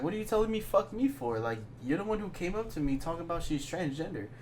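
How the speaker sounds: high, incredulous comeback; indignant retort. Retold or imitated. Narrator retorting to his drunk friend, indignant. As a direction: push back in disbelief.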